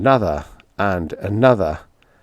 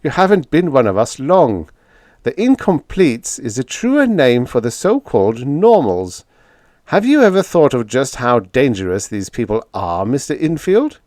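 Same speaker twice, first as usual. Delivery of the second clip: lightly voiced eager zealot, a bit higher and louder; a hint of a smug young fanatic lecturing; Price, zealous young demagogue; 5 semitones higher, 4 dB louder than usual. Narrator voices Price in dialogue.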